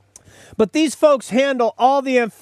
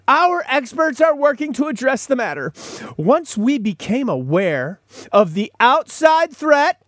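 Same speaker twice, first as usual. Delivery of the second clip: pompous spokesman read, pitched up; mock corporate voice; 4 semitones higher than usual. Host parodies the company statement in a smug PR voice. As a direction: read the press release like a smug PR man. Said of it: "here was the statement they issued".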